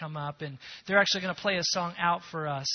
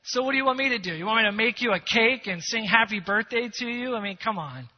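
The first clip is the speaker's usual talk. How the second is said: scoffing friend; 3 semitones higher, 6 dB louder than usual. Retold or imitated. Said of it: "Her friend says".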